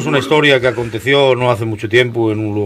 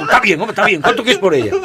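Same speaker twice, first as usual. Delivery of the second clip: higher voice, laughing through the words; laughing surrender; 7 semitones higher than usual. Acted. Lover caving in to the boy, laughing. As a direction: give in while laughing.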